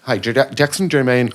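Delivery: flubbed announcer read. Retold or imitated. A singer fluffing his PSA read.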